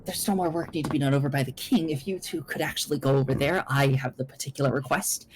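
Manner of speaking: brisk put-on guard voice; quick, official-sounding request in character; disguised guard. Guard stepping out to redirect the others, briskly authoritative. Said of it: "one of the guards, uh, steps out and says".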